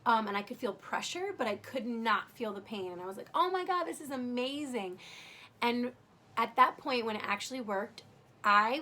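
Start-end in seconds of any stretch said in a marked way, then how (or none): 3.3-5.0 higher, delighted mock exclamation; amazed relief, lightly acted out; retold delight. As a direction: relive the relief, pitched up. Retelling her relief at epidural working.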